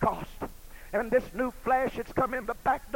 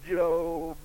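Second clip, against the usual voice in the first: tearful plea; much slower than usual. Acted. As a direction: let the words break with crying. Missus Job's bitter words, quietly.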